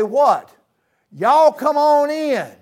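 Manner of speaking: high, loud, slow happy greeting; delighted welcome. Retold or imitated. Parents welcoming family home, loud happy call. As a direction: throw the door open with joy. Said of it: "they say".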